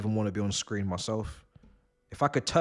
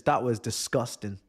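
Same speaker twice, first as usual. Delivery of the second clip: low, deflated disbelief; drained disgust; 5 semitones lower, 3 dB quieter than usual. Real, not acted. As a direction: sink into weary disappointment. Drained disgust after the match.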